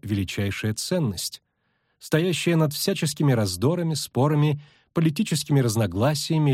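a touch of formal persuasion; measured pitch of an invitation to a secret order; lightly voiced, composed elf envoy; lightly voiced elf sorceress.

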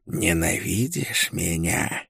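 slow, sinister creature voice; monstrous witch. A narrator's reading. Okul taunts the prisoner after the killing, slow and sinister. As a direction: draw out the taunt like a gloating witch.

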